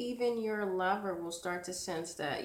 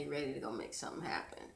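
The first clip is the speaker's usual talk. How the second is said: whispering; 3 semitones lower, 5 dB quieter, much faster than usual. Acted. Tarot reader hyping the energy.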